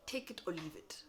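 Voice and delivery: flat whispered ultimatum; curt dismissal; blunt. Shown as a demonstration. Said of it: "say it in a polite way".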